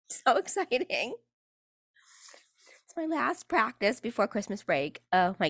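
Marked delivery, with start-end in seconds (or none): 0.1-1.1 high, slow mock thrill with a laugh; giggly, drawn-out fake enthusiasm; sarcastic excitement. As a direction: drag it out with fake delight.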